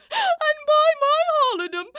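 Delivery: high, breaking into laughter; laughing. Acted. Nurse laughing at her own tale to Lady Capulet. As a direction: laugh through the words at the memory.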